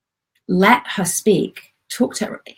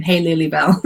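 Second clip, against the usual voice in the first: lightly voiced tender greeting; 2 semitones lower than usual. Shown as a demonstration. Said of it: "uh, Lulybell".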